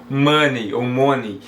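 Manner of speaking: MONEY first "muh-ney", then "moh-nee"; two wrong versions of "money", drawn out; common mispronunciations. Retold or imitated. Teacher imitating learners' mistakes, wrong vowels. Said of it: "Não existe essa pronúncia".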